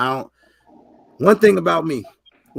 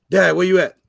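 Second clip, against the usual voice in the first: mock son's call; 7 dB louder than usual. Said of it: "I'd be like".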